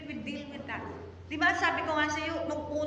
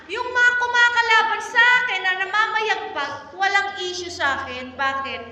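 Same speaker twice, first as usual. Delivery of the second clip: raised, driving sermon voice, higher and louder; preaching at full force; 6 semitones higher, 6 dB louder than usual. Acted. Pastor presses the congregation about anger, preaching at full force. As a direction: push each point hard to the congregation.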